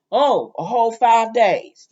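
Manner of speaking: slow, loud mock-impressed comeback; sarcastic retort. Roman answers Kate's late confession, sarcastic retort. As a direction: draw it out with pointed sarcasm.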